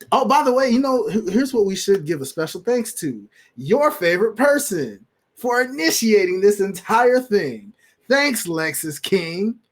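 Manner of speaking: mock-grateful, heavily sarcastic tribute; sarcastic thanks. Real, not acted. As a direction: thank them as if you mean the opposite. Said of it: "I mean that sarcastically when I say that".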